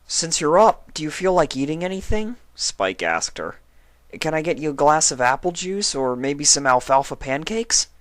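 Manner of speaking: high, eager little dragon voice; young dragon Spike. Acted. Spike reassures sick Twilight, high young dragon voice.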